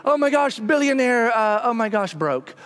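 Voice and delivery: thrilled then caught short; mock euphoric gasp. Investor swings rich to broke.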